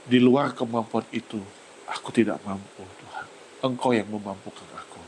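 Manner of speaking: sentimental prayer. Real, not acted. Pastor recalling his morning prayer, growing quiet and moved. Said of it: "kalau saya agak sentimental pada saat ini".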